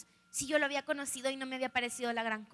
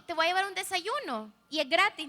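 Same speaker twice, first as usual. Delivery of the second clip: lively higher-pitched retold pitch; eager invitation; 5 semitones higher, 4 dB louder than usual. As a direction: mimic an upbeat, selling invitation. Retelling the boy's breakfast invitation.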